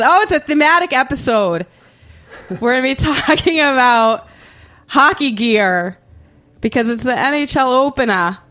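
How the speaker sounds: put-on playful Boston accent, loud. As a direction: lay on the Boston vowels. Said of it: "Are you gonna say it like that?".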